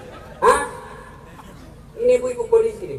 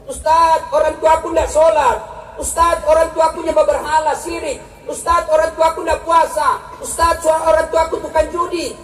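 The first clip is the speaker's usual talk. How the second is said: lightly voiced complaining youth; 5 semitones higher than usual. Young congregant complaining to preacher.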